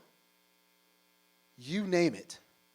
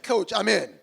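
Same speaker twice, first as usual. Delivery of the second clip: eager yes; 6 semitones higher, 12 dB louder than usual. Retold or imitated. Eager acceptance of unpaid job.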